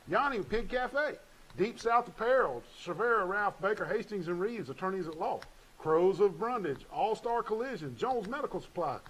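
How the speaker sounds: punchy, lifted list read; sponsor roll call. Real, not acted. Radio host thanking sponsors one by one, lifted roll-call read. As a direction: announce each business name distinctly.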